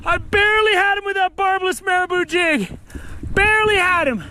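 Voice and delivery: high, pumped-up self-talk; psyching myself up. Real, not acted. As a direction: hype yourself up mid-fight. Fighting fish, psyching himself up.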